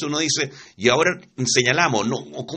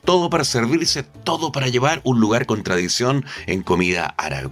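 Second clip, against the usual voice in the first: lively, rolling ad-read delivery; radio sponsor read. Acted. Host plugging El Rincón Árabe to listeners, lively sponsor read. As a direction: sell it like a radio announcer.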